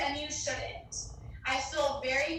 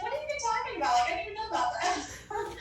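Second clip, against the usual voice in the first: imitating uncle; 7 semitones higher, much faster than usual. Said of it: "He's like".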